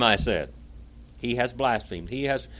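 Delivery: declaimed first-person historical account; dramatic reading. A narrator's reading. Preacher reading Pilate's account to listeners, dramatic reading. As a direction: read it out with oratorical weight.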